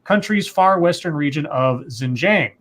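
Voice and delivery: measured, emphatic article reading; reading a news report aloud. Acted. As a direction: read it out like a news story, key words punched. Reads a news story aloud.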